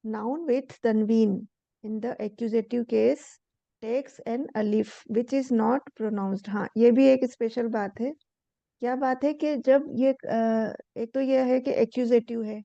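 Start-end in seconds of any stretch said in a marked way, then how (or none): 0.1-6.5 slow textbook read-aloud. Shown as a demonstration. Reads textbook rule aloud.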